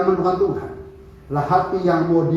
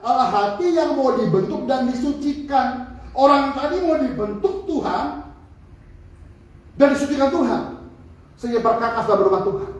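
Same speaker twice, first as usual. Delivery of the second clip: preaching; 4 semitones higher than usual. Acted. Pastor drives home his sermon's main point, emphatic. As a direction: drive the lesson home to the congregation.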